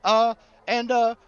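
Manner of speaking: high, eager, folksy storyteller; chatty, excitable Gus. Acted. Rancher telling strangers about a discovery, eager and folksy. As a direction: tell it excitedly, pitch lifted throughout. Game master plays Gus.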